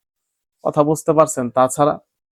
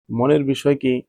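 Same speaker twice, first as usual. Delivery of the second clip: ordinary delivery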